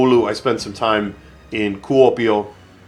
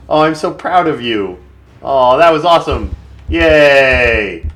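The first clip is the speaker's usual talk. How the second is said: proud cheer; 3 semitones higher, 4 dB louder, slower than usual. Real, not acted. Praising his unit.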